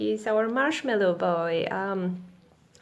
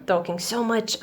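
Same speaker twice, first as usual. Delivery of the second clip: clearing throat while talking; coughy throat clear, then words. Real, not acted. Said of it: "I started coughing".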